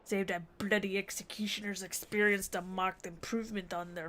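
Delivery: amateur pirate voice, loud then settling. Acted. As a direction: play a swaggering pirate, loud at the start. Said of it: "let's see if I can get my pirate voice".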